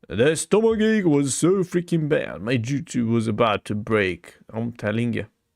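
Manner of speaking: usual speaking voice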